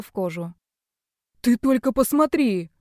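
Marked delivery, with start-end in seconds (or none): 1.5-2.7 admiring gasp. Acted. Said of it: "восхищённо зашептал доктор".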